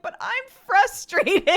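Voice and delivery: put-on high, loud child's wail; mock tantrum outburst; imitated frustrated yell. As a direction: mimic a kid yelling in frustration. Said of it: "I'm getting yelled at".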